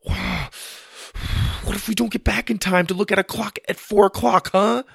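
high, increasingly loud challenge; panicked arguing. Acted. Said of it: "interrupted their argument".

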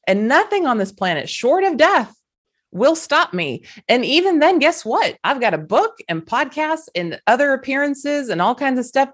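rally them, refusing to quit; a passionate pep talk, pitch climbing; fired up. Real, not acted. Rousing promise to her audience.

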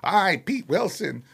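slow, mock-solemn announcement; lightly voiced slow declaration; the speaker as Pete Wilson. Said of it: "whole cassette full of that shit".

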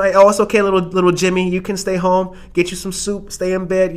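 doting adult. Acted. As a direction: soothe little Jimmy playfully. Indulgent adult voiced in skit.

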